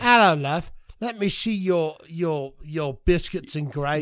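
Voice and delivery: mock British come-on, slowing at the end; British accent. Co-host parodying the pickup line, mock British. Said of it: "in the British accent".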